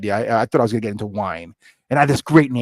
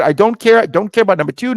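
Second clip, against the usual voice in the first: emphatic dismissal; 8 semitones higher, 5 dB louder, faster than usual. Retold or imitated. Retells refusing other choices.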